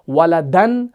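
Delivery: ولدن ending in "-dan", rising. Shown as a demonstration. Teacher reciting the second case, -an ending on ولدن. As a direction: say ولدن as waladan, short a before the n. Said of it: "اس کی تینوں حالتیں کون سی ہیں؟".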